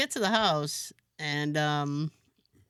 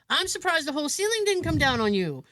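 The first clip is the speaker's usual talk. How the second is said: lightly voiced handyman, raised pitch; imitating Louis; 7 semitones higher than usual. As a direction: quote the alarmed handyman, pitched up. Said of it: "He goes, he goes".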